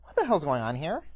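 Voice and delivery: loud, high Californian yelling like a New Yorker; brash American accent, indignant shout; California accent, New York yell. Acted. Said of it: "California accent, but is yelling like a New Yorker".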